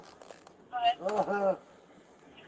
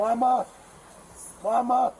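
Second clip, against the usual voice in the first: desperate cries of Mama, louder, in real distress; calling for mother; 2 semitones higher, 4 dB louder than usual. Real, not acted. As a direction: call out for your mother in pain and fear. Man pinned, calling for his mother.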